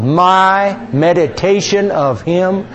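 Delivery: slow, drawn-out congregational recitation; slow psalm recitation with the congregation; recited aloud. Acted. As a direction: lead the room in saying the verse slowly. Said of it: "let's say it out loud".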